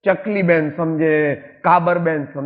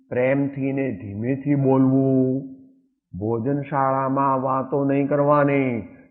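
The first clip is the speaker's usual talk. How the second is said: slow listing; slower than usual. Real, not acted. Listing rules slowly.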